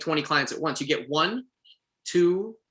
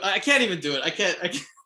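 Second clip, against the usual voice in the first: usual speaking voice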